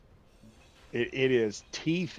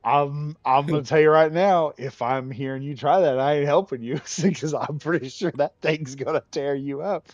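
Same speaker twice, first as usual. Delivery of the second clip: louder warning to mom; 3 semitones higher, 7 dB louder than usual. Retold or imitated. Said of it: "I said".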